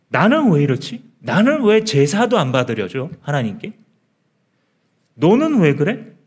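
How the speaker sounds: resentful grumble. Acted. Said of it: "가인의 마음속에".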